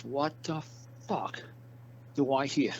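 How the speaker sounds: an angry cop's disbelief, drawn out; imitating a mad cop. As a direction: ham up the furious officer. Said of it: "That cop got so mad".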